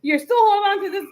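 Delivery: retold rapid, high-pitched accusation; exploding. Wife accuses husband about the letter, retold exploding. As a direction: rattle off a mock outburst, half amused. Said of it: "I kinda just exploded".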